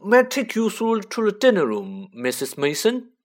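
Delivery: high put-on boy voice; smarmy little boy voice; Dudley voice. A narrator's reading. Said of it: "said Dudley".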